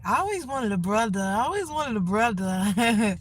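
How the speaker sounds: a mild take on an ad actress; commercial lady. Retold or imitated. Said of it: "that commercial that lady said".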